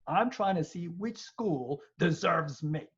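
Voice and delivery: slow, self-assured inner voice; proud self-belief. Shown as a demonstration. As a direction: say it like the school must earn you. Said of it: "I want you to think in terms of".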